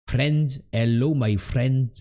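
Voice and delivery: slow attempt at Indian-accented English; roughly imitated Indian accent. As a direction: try an Indian accent with rolled R. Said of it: "Go accent indien".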